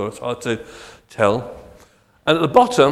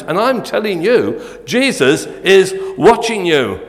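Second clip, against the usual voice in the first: indignant parrot; 2 semitones higher than usual. Acted. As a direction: lecture him like a proud scholar bird. Indignant parrot lecturing burglar.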